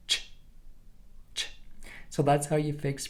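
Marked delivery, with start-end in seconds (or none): 0.1-1.5 "Ch" as a short voiceless burst; unsustainable ch. Shown as a demonstration. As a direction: pop each "ch" and stop dead. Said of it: "a sound that you cannot sustain".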